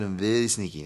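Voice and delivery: sly foreign-butler accent, lightly put on; mock accented boast, played for fun; John Turturro in Mister Deeds. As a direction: imitate a sneaky movie character. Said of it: "John Turturro from fucking Mister Deeds".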